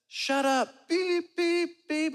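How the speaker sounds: high-pitched bleeped-out rant; light into someone, censoring yourself with beeps; hammed-up telling-off with high beeps; mock tirade. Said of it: "just lights into this woman".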